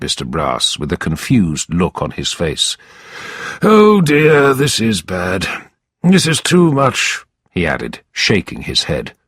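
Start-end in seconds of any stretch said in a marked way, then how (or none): 3.6-7.2 lightly raised, hammed-up lawyer's sorrow; feigned dismay. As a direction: shake your head in mock grief. Brass feigns shock.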